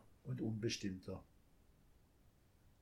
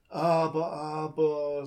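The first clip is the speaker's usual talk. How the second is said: loud, high tut-tutting "Aber, aber"; scolding gently; 4 semitones higher, 7 dB louder, slower than usual. A narrator's reading. Thief gently scolds the crying child, tutting. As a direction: chide the child like a kindly old thief. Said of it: "sagte er tadelnd".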